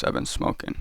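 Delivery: hoarse, near-voiceless rasp; smoker's rasp. Real, not acted. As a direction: rasp it out after smoking. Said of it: "Excuse my voice".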